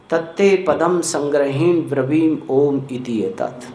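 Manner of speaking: slow, measured chanting of a Sanskrit verse; verse recitation. Acted. Preacher reciting scripture to the congregation, slow chant. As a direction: intone the scripture slowly and evenly.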